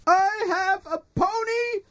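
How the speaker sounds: high, breathless happiness; giddy joy. Acted. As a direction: gush like a kid. Gushing about the pony.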